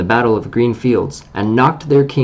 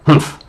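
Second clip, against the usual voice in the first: snort; 5 semitones higher than usual. Acted. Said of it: "some snort more or less like that".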